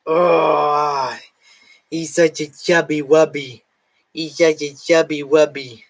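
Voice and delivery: doting sing-song coo. Real, not acted. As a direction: gush over the chubby cat. Doting on her cat.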